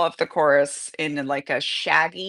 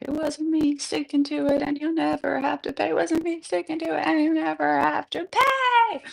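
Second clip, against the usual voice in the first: crescendo; 9 semitones higher than usual. Acted. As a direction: speed up and swell to the end.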